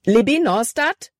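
alarmed shout of a name; panicked call. A narrator's reading. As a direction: call out in sudden fear. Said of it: "Calebs Stimme war panikerfüllt".

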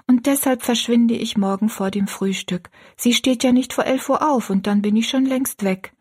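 put-on high girlish voice, earnest; young Rosalie, resolved. Rosalie tells her friend her plan, high and earnest.

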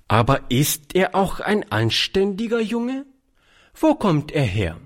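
stern, high-pitched questioning; streng. Acted. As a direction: interrogate him like a strict aunt. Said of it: "fragte Charlotte streng". (strenge Nachfrage)

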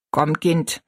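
lightly voiced old Mütterchen; kindly old woman. Old woman waking a girl with tea, kindly. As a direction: gently coax in an old woman's voice.

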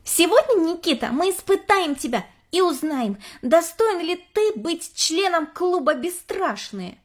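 lightly voiced spooky girl; mysterious. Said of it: "Элли загадочно произнесла".

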